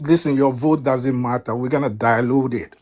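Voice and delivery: a hint of an African accent quoting Republicans; mock quote in a light African accent. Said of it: "In my African voice".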